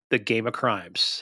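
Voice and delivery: slow dramatic whisper; whispered tagline. Acted. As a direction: breathe the show name out slowly. Show sign-off tagline.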